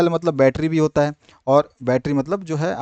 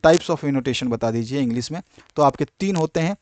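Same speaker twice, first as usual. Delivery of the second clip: normal talking voice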